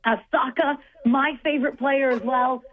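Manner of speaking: lightly put-on English accent, mostly her own voice; a half-hearted English accent for the listeners. Sports host to radio co-hosts, lightly mock English accent. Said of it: "Let me get my England voice now".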